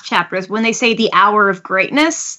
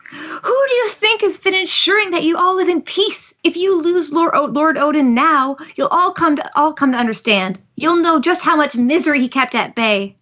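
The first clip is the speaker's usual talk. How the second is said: calling out in a higher voice, acted; indignant appeal to a crowd, pitched up; Shinobu; 6 semitones higher than usual. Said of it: "Shinobu calls out".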